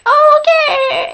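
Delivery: a starstruck gasp of oh okay; flustered oh. Retold or imitated. As Dylan walks over to the table, flustered. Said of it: "and I'm like".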